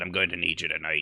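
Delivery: mock gruff masculine voice. Retelling last night's game, quoting Raj asking Tarval for help: imitating Raj's manly gruff voice. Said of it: "his manly, gruff voice".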